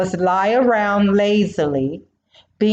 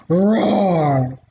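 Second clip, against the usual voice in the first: mild lion roar; 3 semitones lower than usual. Acted. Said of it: "let out a blood-curdling roar".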